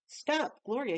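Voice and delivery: a sharp high shout of her name; crying out. Acted. Googly Goo shouts after Gloria to stop her, high and loud. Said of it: "he cried".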